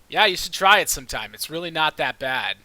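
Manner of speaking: mildly grumpy, starting quick and loud. Acted. Egner answers questions about blindness, mildly grumpy. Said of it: "Eggener will grumpily say".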